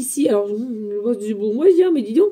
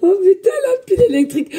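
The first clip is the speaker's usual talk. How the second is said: excited outburst; 7 semitones higher, 3 dB louder, faster than usual. Real, not acted. Reacting to her own energy.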